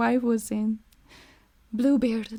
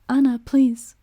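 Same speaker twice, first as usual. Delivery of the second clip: shaken plea; 2 semitones higher, 7 dB louder than usual. Acted. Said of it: "said the shaken girl".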